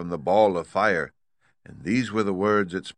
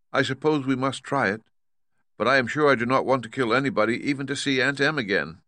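put-on higher-pitched girl voice; reluctant little Dorothy; 6 semitones higher, faster than usual. Dorothy unwilling to kill anybody, high and reluctant. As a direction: agree reluctantly in a raised girl's voice.

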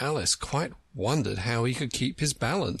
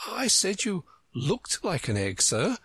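gentle explanation; 9 semitones higher than usual. A narrator's reading. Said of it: "Alice gently explained".

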